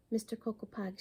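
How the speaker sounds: scolding. Acted. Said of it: "she scolded".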